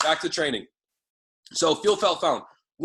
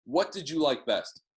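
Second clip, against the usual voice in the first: demo call line; 4 semitones lower than usual. Shown as a demonstration. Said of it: "even edify it".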